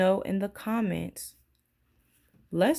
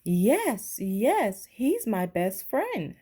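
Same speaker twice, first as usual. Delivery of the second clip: mild excited cry, a bit higher; shouting; 4 semitones higher, slower than usual. Acted. Lisa finding her bear, mild excited shout. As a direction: call out gladly, half-hearted shout. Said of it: "shouted Lisa".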